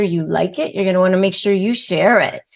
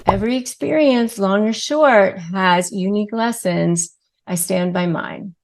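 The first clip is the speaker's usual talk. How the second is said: calm confident reply. Shown as a demonstration. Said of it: "Like that".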